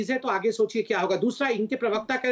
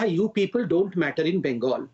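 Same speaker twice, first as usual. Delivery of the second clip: slow, lower-pitched quoting of an opponent; deliberate quote; 5 semitones lower, much slower than usual. Retold or imitated. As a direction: quote it back slowly, word by word. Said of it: "इन्होंने कहा".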